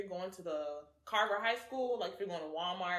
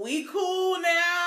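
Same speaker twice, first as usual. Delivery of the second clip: mock apology; 7 semitones higher, 9 dB louder, much slower than usual. 2019 voiced apologizing.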